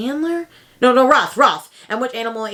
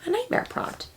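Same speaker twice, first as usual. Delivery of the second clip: much higher and much softer, rising on nightmare; spooky echo; 10 dB quieter than usual. Shown as a demonstration. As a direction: echo it back in an eerie falsetto. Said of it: "is a nightmare prompt".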